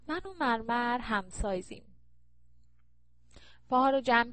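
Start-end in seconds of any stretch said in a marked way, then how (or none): 0.1-1.8 lightly voiced vain mother, mock preening; a hint of a smug society lady showing off; light parody of a proud mother; mocking Marjan's mother. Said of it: "ادای مادر مرجان رو در آورد".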